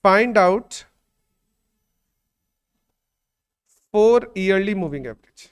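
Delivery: very slow, word by word; teacher dictating homework; slow dictation. Shown as a demonstration. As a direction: dictate each word for copying. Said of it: "मैं question लिखवा देता हूं".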